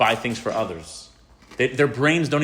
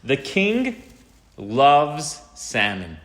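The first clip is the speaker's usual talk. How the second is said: mock grand proclamation; fisherman's announcement; 2 semitones higher, 4 dB louder, much slower than usual. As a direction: sell it like a proud fisherman. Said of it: "the fisherman tells the salmon".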